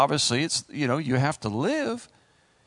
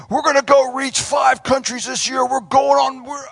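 giddy sing-song; 7 semitones higher, 6 dB louder than usual. Retold or imitated. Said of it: "I was like".

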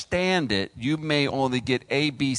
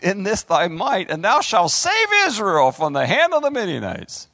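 God's command; 4 semitones higher, 4 dB louder than usual. Acted. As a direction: proclaim it as the Lord commissioning a hero. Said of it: "And he goes".

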